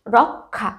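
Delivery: রক্ষা with k plus aspirated kh; রক্ষা pronounced rok-kha. Shown as a demonstration. Teacher contrasting spelling with sound, রক্ষা as rok-kha. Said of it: "কিন্তু উচ্চারণ হচ্ছে".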